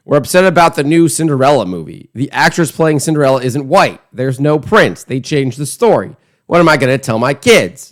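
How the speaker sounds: lightly mocking imitation of upset complainers; mildly mock-outraged quote. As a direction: parody an indignant complaint, a touch exaggerated. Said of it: "a mocking voice when he delivers that".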